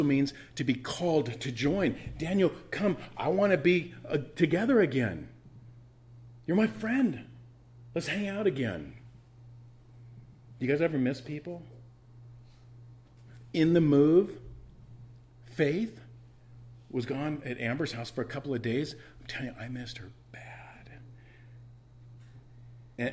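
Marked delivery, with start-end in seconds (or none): 2.2-8.9 eager calling out. Acted. King calling for Daniel. 19.2-20.9 hushed confiding whisper. Real, not acted. To the church about missing his daughter, whispered.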